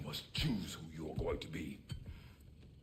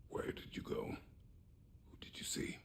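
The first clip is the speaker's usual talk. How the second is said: low whispered questioning; hushed, held-back demand; hushed interrogation; 5 dB quieter, slower than usual. Acted. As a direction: press for answers under your breath. Father interrogates his returned son.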